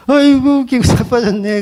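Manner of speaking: high-pitched acted derision, starting strong; mocking scoff. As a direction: scoff at him in a put-on voice. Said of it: "비웃죠".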